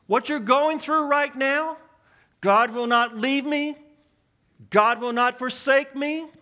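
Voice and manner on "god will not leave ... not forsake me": confident affirmation. Shown as a demonstration. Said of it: "Do you believe that promise?".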